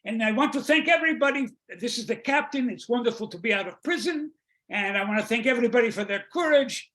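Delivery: Italian captain's welcome speech; Italian accent. Acted. Freed captain thanks and apologizes to passengers, Italian accent. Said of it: "You hear this in an Italian accent".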